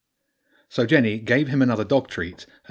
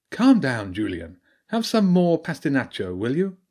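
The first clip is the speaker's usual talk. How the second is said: badger priestess voice; 4 semitones higher than usual.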